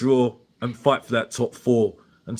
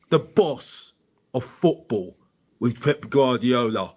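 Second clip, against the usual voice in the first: grand entrance announcement. Acted. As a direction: ring announcer hype intro. Hypes himself as Mister Box Office.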